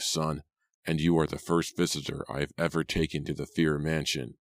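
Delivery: put-on an old man sizing up a stranger; suspicious old cabby.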